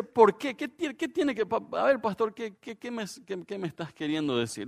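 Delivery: high, halting confused questions to the pastor; puzzled groom. Retold or imitated. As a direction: stumble like you don't get the point. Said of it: "y uno, uno dice".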